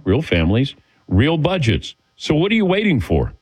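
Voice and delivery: smooth live radio ad read. Acted. Host reads the insurance ad on air, smooth ad voice. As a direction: sell it to the listeners, steady and upbeat.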